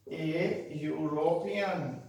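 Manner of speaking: "European" starting with a slow "you" sound. Shown as a demonstration. Teacher showing the U sound, "European" begun as "you". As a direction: draw out "European", opening on y. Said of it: "यू यहाँ पे बोल रहा है".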